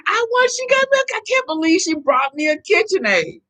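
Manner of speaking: very high re-enacted squeal, settling slightly; excited screaming. Wife retelling her joy at the KitchenAid, high mock squeal. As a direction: gush in high-pitched disbelief, acting it out. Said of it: "jumping and screaming in the street".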